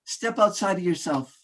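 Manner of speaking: rousing speaker, building to big peaks on key phrases; motivational speech. Acted. Speaker rallying ladies and gentlemen, rousing motivational delivery. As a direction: preach it to the room like a keynote.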